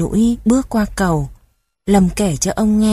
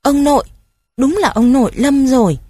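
surprised; 5 semitones higher than usual. A narrator's reading. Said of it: "Lâm ngạc nhiên".

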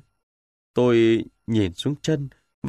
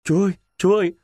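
hands cupped, higher and louder call; calling through cupped hands; 6 semitones higher, 3 dB louder, much faster than usual. A narrator's reading. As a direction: call out for help across the field. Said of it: "Tôi khum tay kêu lên".

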